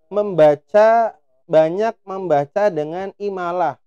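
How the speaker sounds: "membaca" drawn out with slanted, imperfect vowels; slow, slanted vowels on "membaca"; imalah reading. Shown as a demonstration. Teacher demonstrates wrong imalah vowels to students. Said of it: "Imalah tuh miring".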